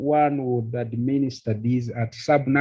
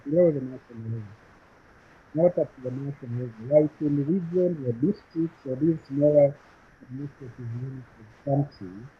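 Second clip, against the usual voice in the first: muffled, like a covered mic. Real, not acted. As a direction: talk as if through a hand over the mouth. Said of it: "you seem to be muffled in your sound".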